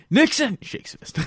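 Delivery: high, slow laughing echo. Real, not acted. Friend echoes the Nixon joke, laughing high and slow. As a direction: repeat it through laughter.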